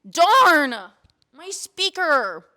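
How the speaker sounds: high, loud and drawn-out mock disappointment; mock-dramatic flirt. To Chris after losing the speaker, high loud hammed-up flirting. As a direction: ham up the loss, then ask him out. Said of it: "And I'm like".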